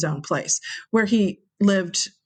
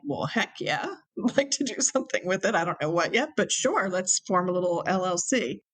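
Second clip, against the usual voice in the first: laughing yes; 4 dB quieter than usual. Retold or imitated. Eager reply to Jack, laughing.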